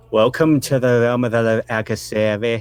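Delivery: booming voice. Acted. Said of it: "booming voice".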